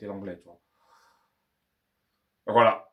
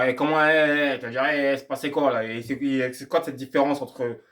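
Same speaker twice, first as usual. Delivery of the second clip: louder "eh, eh" of someone caught off guard; mock puzzled surprise; 3 semitones higher, 6 dB louder than usual. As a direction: imitate a baffled learner, a bit louder.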